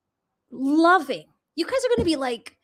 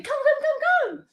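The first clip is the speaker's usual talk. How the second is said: coaxing puppies; 11 semitones higher than usual. Real, not acted. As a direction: coax them in with a sweet high voice.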